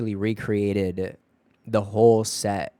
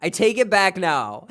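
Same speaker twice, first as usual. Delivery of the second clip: mock retraction; 8 semitones higher, 6 dB louder than usual. Backpedals after mock apology.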